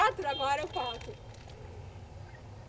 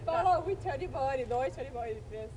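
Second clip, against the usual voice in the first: laughing; 4 semitones lower, 4 dB quieter than usual. Real, not acted. Chubby bunny challenge, laughing.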